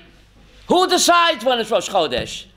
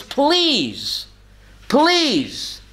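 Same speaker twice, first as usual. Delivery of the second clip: high, measured imitation of a plea; pleading; 6 semitones higher than usual. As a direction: plead on each separate "please". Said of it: "I beg of you".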